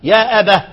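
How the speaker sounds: يا أبه ending on a breathed h; stop with final h. Shown as a demonstration. Teacher showing students the pausal form, يا أبه ending in h. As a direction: pause on يا أبه, closing the word "abah". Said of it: "قف بالشكل ده".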